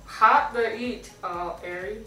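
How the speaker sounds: slow and slurred, lips wide; lips stretched. Real, not acted. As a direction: force the words through a stretcher. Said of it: "I'm, like, drooling".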